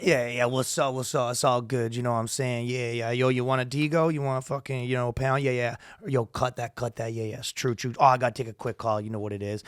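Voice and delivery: casual street patter; lightly voiced hood dealer on his turf; hood dude. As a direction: run the slang off casually. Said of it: "every dude that's kinda hood".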